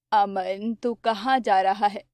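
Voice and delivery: an anxious poor mother urging her son on; mother's voice. Acted. (थोड़ी धीमी, फ़िक्रमंद माँ की आवाज़)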